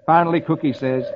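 usual speaking voice

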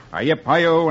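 lightly called cowboy cry. Acted. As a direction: give a rhythmic cowboy holler, held back a little. Cowboy call opening the comic.

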